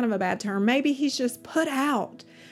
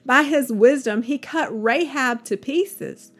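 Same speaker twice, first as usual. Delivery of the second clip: louder, declaiming the verses to a listening congregation; scripture proclamation; 3 dB louder than usual. Acted. Reader to listeners, proclaiming Job's words with a fuller voice. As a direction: proclaim each line like a preacher at the pulpit.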